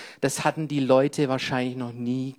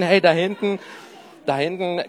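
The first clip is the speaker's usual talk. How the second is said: calling out. Real, not acted. Calling to back of room.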